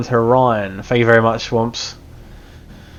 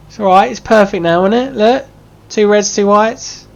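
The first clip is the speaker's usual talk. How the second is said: excited high pitch; 10 semitones higher, 4 dB louder than usual. Real, not acted. High excited reassurance while laughing.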